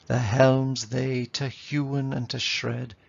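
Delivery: slow, weighty H sounds in "helms" and "hewen"; "helms" and "hewen" hit hard on their first sound; alliterative verse reading. Shown as a demonstration. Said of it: "All that kind of alliteration".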